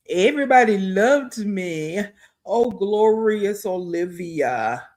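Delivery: slow, mocking grandeur; mocking her. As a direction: sneer at her bragging. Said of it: "You're not gonna tell that part".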